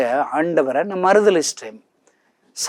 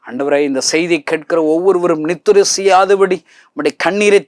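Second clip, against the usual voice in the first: louder, rising pulpit prayer; fervent closing prayer; 4 dB louder than usual. Acted. Preacher prays to the Father for his listeners, building fervently. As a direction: pray over the congregation with mounting fervour.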